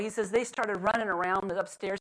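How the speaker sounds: ordinary talk, nothing marked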